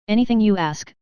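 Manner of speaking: a touch of an explosive eager cry; understated eager exclamation; mild outburst. Acted. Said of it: "Leandra exploded".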